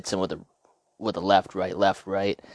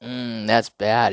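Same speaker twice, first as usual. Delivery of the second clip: slow, loud and higher bragging; mock menace; Ali boast; 5 semitones higher, 6 dB louder, much slower than usual. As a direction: savor it like a tough guy.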